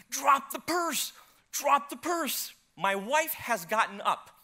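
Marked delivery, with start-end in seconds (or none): 0.1-2.5 high, drawn-out chase yell; retold yell. Preacher re-enacting his shout at a purse snatcher, high mock yell. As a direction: call it out after a thief, slightly held back. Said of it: "I'm yelling".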